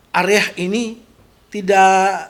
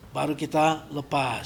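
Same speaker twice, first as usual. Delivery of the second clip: soft release cue; 4 semitones lower, 6 dB quieter than usual. Shown as a demonstration. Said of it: "Seperti ini".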